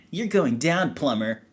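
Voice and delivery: lightly voiced cocky hedgehog rival; Sonic. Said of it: "Sonic the Hedgehog versus".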